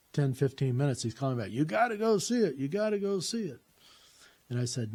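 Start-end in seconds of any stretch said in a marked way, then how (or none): 1.5-3.6 high-pitched mock pestering father; imitated nagging dad. Father phoning every few minutes to insist, mock nagging.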